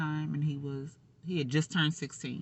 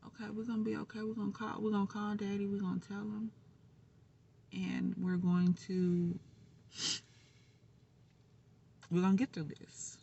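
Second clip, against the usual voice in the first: calm reassurance; 5 semitones higher, 4 dB quieter than usual. Retold or imitated. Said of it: "was very calm".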